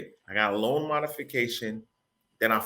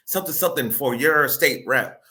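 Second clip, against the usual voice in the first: louder, higher mock campaign announcer; imitating political ads; 5 semitones higher, 5 dB louder than usual. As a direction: boom it out like a politician's ad. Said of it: "how they advertise".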